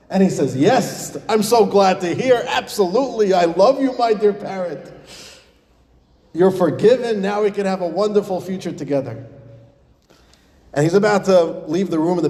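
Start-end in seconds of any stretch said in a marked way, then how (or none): 0.6-9.3 overjoyed owner. Acted. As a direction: gush with relief and affection. Overjoyed owner forgives his parrot.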